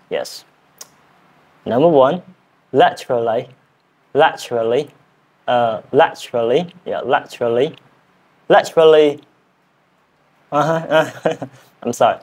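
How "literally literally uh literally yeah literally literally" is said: drilling a learner's British "laterally"; British accent attempt. Shown as a demonstration. Learner practising number one, British accent attempt. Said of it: "I am learning British accent".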